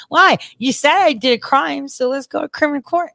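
high-pitched, needling comeback; indignant challenge. Retold or imitated. Retelling how they dared the accuser to go to court, indignant. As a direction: push back in a re-enacted argument.

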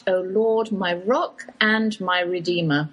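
reverent prayer, slowing into the last line; opening prayer. Acted. Host opening her show with a prayer, reverent.

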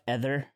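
"ether" with an eh in the first syllable; imitated pronunciation. Friend listing a co-host's odd words, imitated pronunciation. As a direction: start "ether" like the word feather. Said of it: "he says ether".

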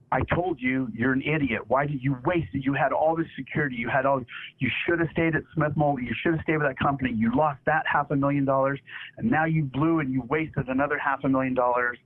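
mock-scold like a disgusted dad lecturing his kid; retold angry scolding. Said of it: "he was just really mad".

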